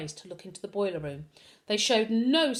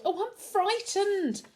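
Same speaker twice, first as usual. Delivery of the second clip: higher, slow frightened wail; 11 semitones higher, slower than usual. A narrator's reading. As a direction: wail it out in fear. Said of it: "Ingrid wailed".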